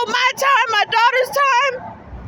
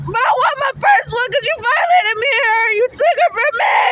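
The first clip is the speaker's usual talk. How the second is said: tearful, raised outburst; crying shout. Real, not acted. Mother crying out to the agency for her first daughter, anguished. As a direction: cry out the demand in anguish. Mother's rant about taken baby.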